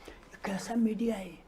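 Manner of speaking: whispered in disbelief; scornful hushed aside; disgusted whisper. Real, not acted. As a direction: hiss the question under the breath. Disgusted rhetorical question in rant.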